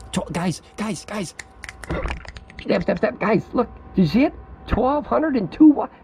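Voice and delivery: high-pitched, building to a loud thrilled cry; real excitement. Real, not acted. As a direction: urgently get everyone to look, overjoyed. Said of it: "I got excited over twelve hundred watts".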